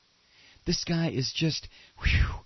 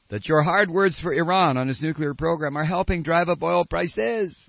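mock French accent; 3 dB louder than usual. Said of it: "once you get into this, it's hard to get out".

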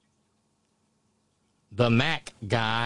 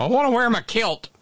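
mock the guest like a pouting kid; whiny child mock; 9 semitones higher than usual. Host mocking the guest's kilt demand as a whining child.

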